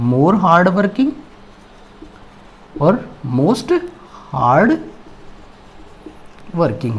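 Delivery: slow, deliberate dictation. Shown as a demonstration. Teacher dictating comparative form slowly to students. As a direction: spell it out slowly for the class. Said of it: "हार्ड वर्किंग".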